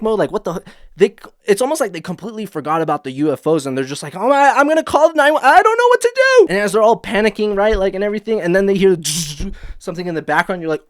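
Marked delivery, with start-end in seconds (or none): 4.2-6.5 climbing much higher, flustered; mock panicked survivor; panicky helplessness. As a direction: babble like you can't think straight. Injured friends panicking, calling help.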